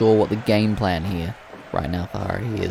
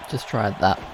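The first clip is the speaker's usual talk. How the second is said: softer muttered repeat, "Just tried that" said under the breath; quiet aside; 5 dB quieter than usual. Real, not acted. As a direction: drop it to a wry aside. Repeats the remark to himself.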